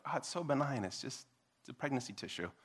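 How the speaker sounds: soft, light mock reassurance; gentle, benign. Speaker mimicking how gentle the website sounds, softly reassuring. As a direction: imitate a harmless-sounding euphemism, softly. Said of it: "it sounds so gentle".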